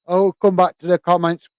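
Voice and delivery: yawning. Real, not acted. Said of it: "Apologies, uh, for yawning".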